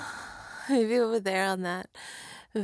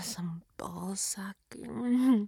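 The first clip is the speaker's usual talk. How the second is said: whispering; 2 semitones lower, 5 dB quieter, much slower than usual. Real, not acted. Slow whispered list.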